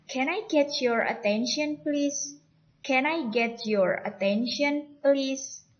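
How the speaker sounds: "Can I get your attention, please?" slow, "please" lifted high. Shown as a demonstration. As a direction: keep the pitch up through "attention, please?". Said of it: "Nadanya masih naik ya".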